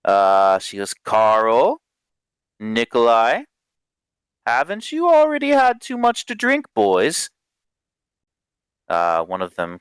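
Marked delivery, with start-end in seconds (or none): 0.9-7.3 raised pitch, reproachful question; mild barmaid's reproach; chiding barmaid. Acted. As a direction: scold the boys lightly. Barmaid chides the drunk young men.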